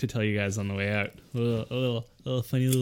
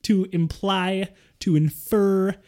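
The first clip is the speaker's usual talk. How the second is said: mock indignant rant; 5 semitones higher, 4 dB louder than usual. Mock outrage rant at mom.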